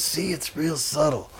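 soft, drawn-out mock explanation; slow and hushed, as if very subtle; sly deadpan. Bluesman fooling his bandmates, slow hushed deadpan.

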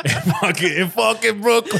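put-on high, loud botched British accent; mock British, hammed-up and high; fake British accent. Comedian botches a British accent telling a band story. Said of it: "I don't know what accent that is".

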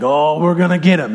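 lightly voiced coach revving up the team; a hint of a rallying football coach; pep-talking coach. Coach giving the team a pep talk, lightly hammed-up. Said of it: "when I had a coach growing up".

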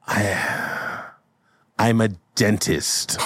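hesitant, lightly voiced admission; halting, sheepish answer; deflated old man. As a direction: start faintly, then admit it. Old brother answers the kid.

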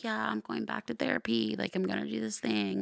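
imitating someone showing off about therapy; mock attention-seeker. Host mimicking someone seeking attention, mock self-important. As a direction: put on an airy, mostly high attention-seeking voice. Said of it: "trying to get attention from people".

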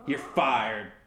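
slow, light impersonation; Donald Trump. Acted. Echoing Leslie's catchphrase for the audition, light slow impersonation. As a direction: copy the catchphrase slowly, as an attempt. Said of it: "your best Donald Trump impersonation".

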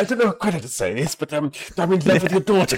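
Clint Eastwood. Retold or imitated. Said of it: "Clint Eastwood".

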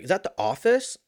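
high, pointed mock challenge; menacing question. Stranger challenges runner over his shirt, mock menace. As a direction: challenge him about the shirt. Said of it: "he's like".

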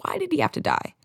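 high pained plea; anguished cry. Real, not acted. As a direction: cry out in real grief. Grieving TV character's death.

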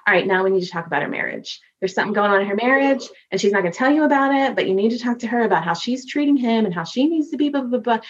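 fast, brisk instructions; bossy spirit. Retold or imitated. A lightly voiced spirit bossing the medium, fast. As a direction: rattle off orders briskly. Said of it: "they'll be like".

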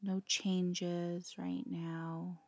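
calm, unhurried yoga nidra guidance with long pauses; guided meditation. Acted. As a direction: let each phrase settle before gently giving the next.

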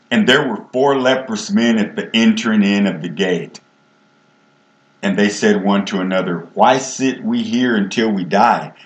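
reading King James verses in a steady preaching voice; measured reading of scripture to the congregation. Acted. Reads scripture aloud.

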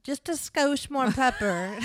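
put-on failed Midwestern accent. Joking with co-host about skosh, botched Midwestern accent. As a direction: attempt a Midwestern accent and miss. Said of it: "That's not Midwestern at all".

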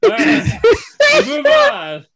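high, loud words through laughter; wheezing move on through laughter; laughing. Real, not acted. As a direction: try to talk while still laughing. Laughing, trying to continue.

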